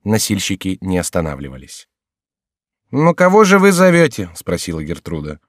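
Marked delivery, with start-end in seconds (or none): 2.9-4.3 high, louder maid's voice. A narrator's reading. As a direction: chirp it as the young maid. Maid Gertrude's voiced question.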